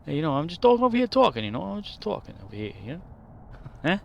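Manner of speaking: put-on fast-talking Boston accent, starting loud and high. Just talking over here, rapid played-up Boston accent. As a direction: rattle it off as a pushy mock Bostonian. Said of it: "they had the Boston accent thing".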